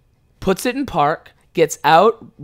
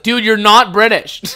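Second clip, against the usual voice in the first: higher, louder, drawn-out accusation; incredulous callout; 5 semitones higher, 8 dB louder than usual. Acted. Partygoer challenges the fake Brit, incredulous callout. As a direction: call out the faker in disbelief. Acting out a doubter calling him out.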